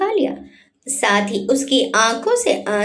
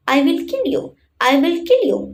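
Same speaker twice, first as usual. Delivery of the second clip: angry through gritted teeth; 5 semitones higher, much slower than usual. A narrator's reading. Virat swears revenge on the kidnapper, seething through teeth. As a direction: spit the threat through clenched teeth. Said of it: "गुस्से में दांत पीसते हुए बोला".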